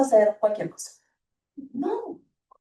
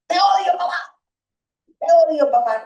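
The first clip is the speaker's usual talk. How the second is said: put-on child yelling at dad, louder; angry child; 4 semitones higher, 4 dB louder than usual. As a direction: throw it at the parent in a tantrum. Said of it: "cuando nos dicen". (hijo enojado gritándole a su papá)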